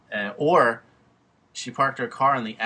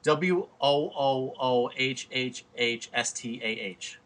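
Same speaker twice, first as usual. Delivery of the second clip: slow sarcastic letter-by-letter spelling; slow mocking spelling; 2 semitones higher, slower than usual. Shown as a demonstration. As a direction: drag out the letters to mock it. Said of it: "Tell me how that goes into".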